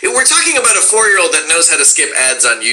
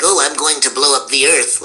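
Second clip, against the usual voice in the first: mild nebbish nerd voice; lightly voiced nerdy little alien; Marvin the Martian. Shown as a demonstration. Voice actor shows Marvin's original voice, lightly nebbish nerd. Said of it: "it was like this".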